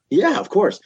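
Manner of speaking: a high, easygoing "sure thing"; mock laid-back rock star; imitating George. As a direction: play the stoned guitarist agreeing. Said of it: "And he's like".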